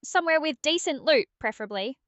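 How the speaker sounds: put-on impatient British accent; brisk British nudge to get moving; British Aria. Game sidekick hurrying the player to drop, impatient British. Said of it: "how was British Aria's day?".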